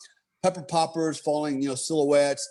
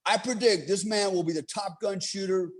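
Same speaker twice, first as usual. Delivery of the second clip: instructor praising; 6 semitones higher than usual. Retold or imitated. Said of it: "He goes".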